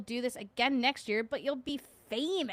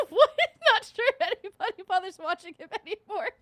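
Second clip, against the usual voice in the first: much higher, louder snarky voice; teasing mock voice; 10 semitones higher, 9 dB louder than usual. Streamer roasting a friend in a put-on voice.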